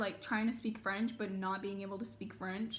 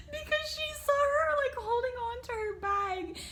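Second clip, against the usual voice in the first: high voice breaking into laughter; can barely get the words out for laughing; giggling at how terrified Bob looked; laughing through words; 11 semitones higher than usual. Real, not acted. Explaining while laughing.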